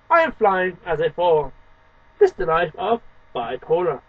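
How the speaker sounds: measured, deliberate poetry reading with dramatic swings; expressive spoken-word poem. Acted. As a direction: read the poem like a performance, leaning on the contrasts. Reads own poem aloud.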